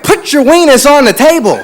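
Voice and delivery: loud, high demand; drunk stranger. Retold or imitated. Drunk stranger ordering the comic at the bar, loudly insistent. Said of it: "had a little bit more, you know, drinks".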